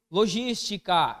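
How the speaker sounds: "logística" very slow, stress on gís; stressed-syllable demo. Shown as a demonstration. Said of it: "Qual que é a sílaba tônica de logística?". ("logística" devagar, tônica no gís)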